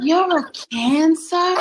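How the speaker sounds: slow, drawn-out incredulous question; disbelieving voice. Real, not acted. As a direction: stretch each word in mock dismay. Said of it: "Not that voice".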